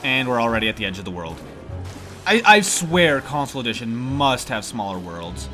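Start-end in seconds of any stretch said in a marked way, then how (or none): 2.3-5.5 stuffy-nosed nasal voice from allergies. Real, not acted. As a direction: talk through a blocked, nasal nose. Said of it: "I sound really nasally right now".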